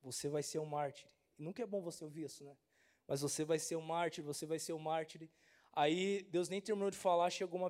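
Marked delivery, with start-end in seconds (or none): 0.0-5.3 softer, hushed divine words; God's quiet voice. Retold or imitated. Pastor recalling God's quiet voice while kneeling. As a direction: lay it down gently like a calling. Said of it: "Deus começou a falar pra mim".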